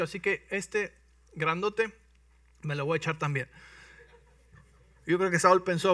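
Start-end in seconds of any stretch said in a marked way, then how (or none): 0.0-3.5 raised, eager bragging; lightly voiced confident shepherd boy; boastful boy David. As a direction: sell yourself to the king. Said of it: "Y dice".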